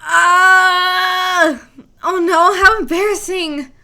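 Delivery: loud embarrassed yelp; flustered cry. Acted. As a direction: shriek in flustered panic. Flustered game character voiced.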